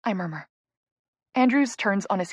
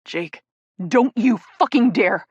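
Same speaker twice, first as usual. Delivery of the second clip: growling; 5 dB louder than usual. Acted. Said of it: "Jake growls at him".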